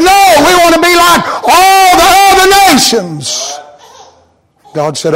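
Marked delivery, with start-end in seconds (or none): 0.0-3.6 lightly mocked whiny people. Israel demanding a king.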